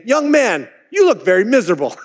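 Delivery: put-on single out the young man sharply; startling call-out. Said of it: "he startled him by saying".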